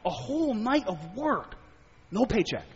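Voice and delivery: a light touch of rueful angst. Retold or imitated. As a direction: lament the lost wages. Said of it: "the angst in him".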